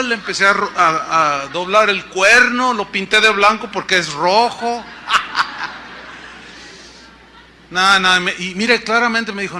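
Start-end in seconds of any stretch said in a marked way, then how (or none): 4.9-6.4 laugh. Real, not acted. Laughs at his own joke.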